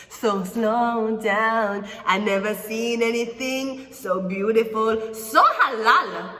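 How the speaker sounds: slow, drawn-out flirty swoon; flirty admirer. Acted. Admirer slowly sweet-talking the querent, drawn out. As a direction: woo them slowly, savouring each word.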